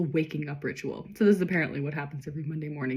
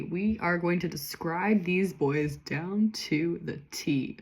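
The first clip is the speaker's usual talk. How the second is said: slow, deliberate delivery; measured, drawn-out build-up; drawn-out announcement; 4 dB quieter, slower than usual. Real, not acted. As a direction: spell it out slowly, word by word. Playfully announces a detailed description.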